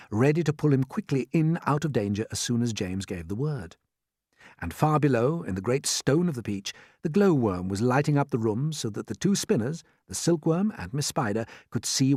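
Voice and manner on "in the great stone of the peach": ordinary delivery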